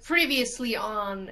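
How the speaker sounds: lightly voiced recap announcer, drawn out; a slow hint of "previously on" narration. Gamer likens episodes to a TV show, mock recap announcer.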